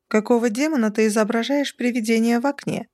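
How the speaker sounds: sharp, unfriendly question; far from sweet. Acted. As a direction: snap the question, not sweetly at all. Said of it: "Голосом, далёким от определения «милый»".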